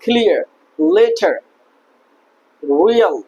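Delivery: drawn-out careful example words; English R demo. Shown as a demonstration. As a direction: model রিয়েল slowly with an untapped r. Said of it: "এভাবে উচ্চারণ করতে হবে".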